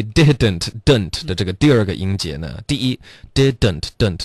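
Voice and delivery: "didn't" in two full syllables, did-dent. Shown as a demonstration. Teacher breaking the word down, "didn't" with both d's. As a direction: sound the second d in "didn't". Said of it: "第二个音节的的的音会省略".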